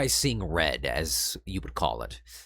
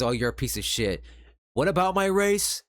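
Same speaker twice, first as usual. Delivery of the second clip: mock outrage; 9 semitones higher, 4 dB louder than usual. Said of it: "if somebody says".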